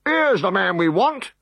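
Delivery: high, slow officer's cry; triumphant officer. Acted. Decurion springing the ambush, high and triumphant. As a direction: point out the quarry.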